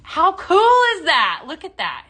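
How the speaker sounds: high, loud, drawn-out excitement; wowed and gushing, slow and high; excited marveling. Real, not acted. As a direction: marvel slowly, stretching the words out loud. Amazed at the glowing cross.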